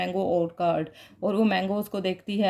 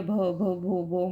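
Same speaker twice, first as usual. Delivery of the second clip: stammer; 2 semitones lower, slower than usual. Retold or imitated. Scared girl stammering her name again for the teacher. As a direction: catch on each syllable as if the name won't come. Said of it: "फिर वो दोबारा हकलाना शुरू कर देती है".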